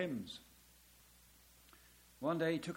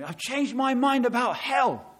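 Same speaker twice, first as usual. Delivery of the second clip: put-on elderly lady quoted; 8 semitones higher, 10 dB louder than usual. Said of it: "She said to me".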